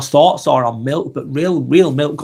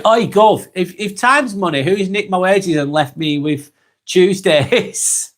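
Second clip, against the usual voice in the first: put-on cockney accent; 5 semitones higher, slower than usual. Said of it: "a bit of wordplay on the accent there".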